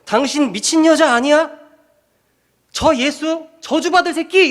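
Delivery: 훨씬 높게 치솟은 흉내 낸 욕설; 궁지에 몰려 소리치듯 욕하기; 저주하는 베드로. Retold or imitated. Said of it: "이러면서 막 욕을 하고". (여종에게 욕하는 베드로, 높고 격한 흉내)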